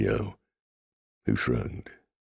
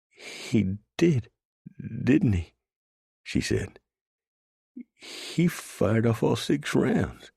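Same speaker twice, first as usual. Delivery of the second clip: lightly voiced girl, higher and hopeful; a scared girl finding hope, slower on the last line; young woman's voice; 12 semitones higher, slower than usual. A narrator's reading. Hostage girl voiced high.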